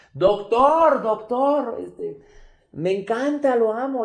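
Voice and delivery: high, loud, gushing fan voice; excited female fan. Retold or imitated. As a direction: gush like a star-struck fan. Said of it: "desde atrás una señora". (fan emocionada, aguda y fuerte)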